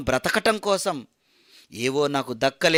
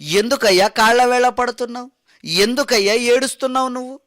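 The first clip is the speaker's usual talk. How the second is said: higher, louder demanding why he is crying; loud questioning; 6 semitones higher, 4 dB louder than usual. Acted. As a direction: call out to the weeping runner. Preacher voices asking the crying man. (గట్టిగా, ఆశ్చర్యంగా ప్రశ్నించడం)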